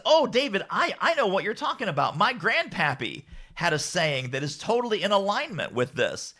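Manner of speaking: high, lilting attempt at a Cajun accent; rough Cajun accent. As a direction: imitate a Cajun client, loosely approximated. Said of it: "the Cajun accent, but you'll, you'll get".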